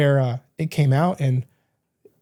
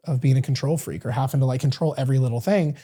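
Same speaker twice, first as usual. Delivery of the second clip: ordinary talk, nothing marked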